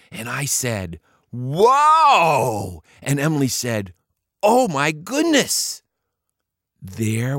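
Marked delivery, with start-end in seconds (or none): 1.3-2.8 loud, high astonished whoa; amazed whoa. Acted. Boy seeing the party in the lounge, astonished. 4.4-5.8 drawn-out, high amazed gasp; slow amazement. Acted. Emily staring into the lounge, slowly amazed.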